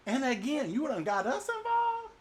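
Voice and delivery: high complaining squeak; whining sailor. Acted. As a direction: whine it, exasperated.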